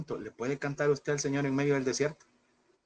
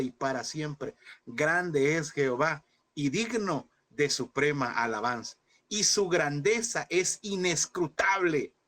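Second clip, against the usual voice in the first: slow, reverent reading of scripture; solemn psalm recitation; slower than usual. Acted. Preacher reciting a psalm to his congregation, slow and reverent. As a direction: intone the psalm slowly like a prayer. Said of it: "ese salmo donde dice".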